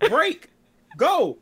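high mock yells of stop and go; imitating a parent screaming driving orders. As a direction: fire off the orders like a frantic parent. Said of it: "someone's screaming in your ear".

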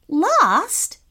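startled, rising nervous question. Acted. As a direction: ask it worried and unsure. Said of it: "with a nervous voice".

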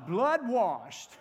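slow call-and-response confession, pauses between phrases; firm declaration. Shown as a demonstration. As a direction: lead them firmly, phrase by phrase. Second call to repeat confession.

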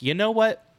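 high-pitched, laughing exasperation; mock giving up. Dad quitting on his gaming friends after two hours, high mock-exasperated sign-off. Acted giving up on the game night.

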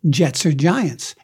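slow, deliberate uncle interrogation; menacing uncles. Retold or imitated. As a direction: drag it out like a tough uncle grilling a kid. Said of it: "They go".

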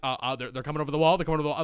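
fast, loud panicked callout; frantic callout. Retold or imitated. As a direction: rush the warning out. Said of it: "I'm like".

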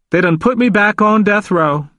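high, plaintive lament; mournful. A narrator's reading. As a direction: lament your fate, pitched well up. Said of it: "His voice was mournful".

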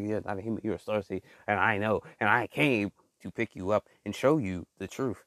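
low, solemn alien messenger. Acted. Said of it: "I almost sound like an alien".

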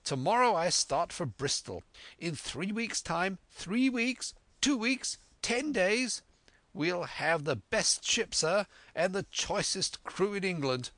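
squire carried away planning the voyage; excited squire. A narrator's reading.

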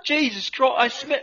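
put-on high-pitched accented exclamation; appalled, hammed-up character voice; mock disgust. Recoiling from the smell, mock disgusted cry. Acted disgust in improvised commercial skit.

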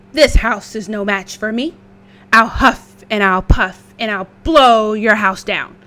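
loud menacing wolf. Acted. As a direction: threaten like a big bad wolf. Wolf threatens.

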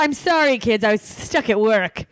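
high, put-on sheepish mom voice; lightly voiced guilty mother; mock sheepish mom. Mom excusing herself to her kids, high sheepish voice.

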